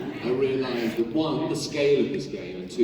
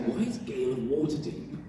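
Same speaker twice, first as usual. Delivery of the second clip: a startled clerk gawking, laughing; imitating shop clerk; 7 semitones higher than usual. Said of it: "you'll get someone saying".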